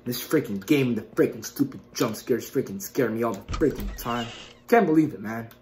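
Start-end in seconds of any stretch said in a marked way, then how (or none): 0.0-4.3 soft, low, halting grumble; low grumbling. Real, not acted. Player sulking about jump scares, quiet grumbling. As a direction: grumble under your breath.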